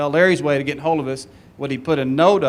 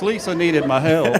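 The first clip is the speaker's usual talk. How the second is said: mock excuse. Repeating the excuse mockingly.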